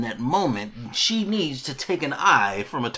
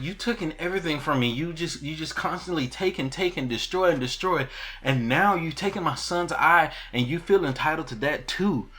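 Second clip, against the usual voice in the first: higher acted accusation; accusing tirade; 5 semitones higher than usual. Alicent accusing Rhaenyra mid-struggle, higher-pitched tirade. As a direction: imitate a wronged woman listing grievances, pitched up.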